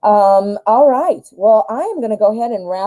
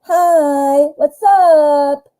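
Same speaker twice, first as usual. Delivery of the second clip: higher, louder, sugary hello; Miriam's fake greeting; 6 semitones higher, 4 dB louder, much slower than usual. The ex returning for money, higher put-on greeting. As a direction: play the ex sweet-talking her way back. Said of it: "she'll be there".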